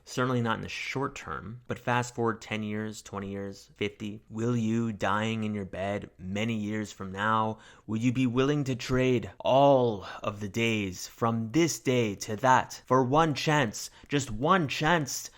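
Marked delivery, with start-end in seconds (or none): 4.3-15.3 builds from a slow rallying call to a much higher, louder shout in a put-on Scottish-style accent; mock Scottish war speech, swelling from a slow rally to a full battle cry; hammed-up movie battle-speech accent. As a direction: rouse the troops before battle in a mock Scottish brogue, ending in a roar. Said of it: "I really wish I could do proper accents".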